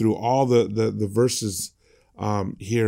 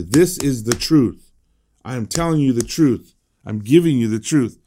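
firm, measured insistence on TRUTH; emphatic; 4 dB louder than usual. Retold or imitated. Preacher voicing Jesus insisting he speaks truth, emphatic. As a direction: drive home each statement about the TRUTH. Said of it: "the way he says it emphatically".

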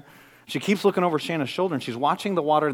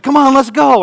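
cheerful urging; 10 semitones higher, 11 dB louder than usual. Retold or imitated. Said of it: "I said".

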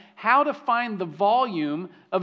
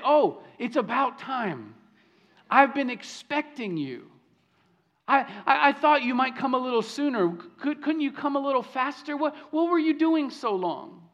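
impatient mock complaint; 5 semitones higher than usual. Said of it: "she doesn't say".

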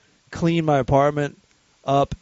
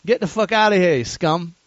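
mock insult; 3 semitones higher than usual. Shown as a demonstration. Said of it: "This is an insult".

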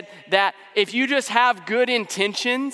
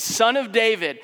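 mock shout; 3 semitones higher than usual. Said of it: "he's yelling".

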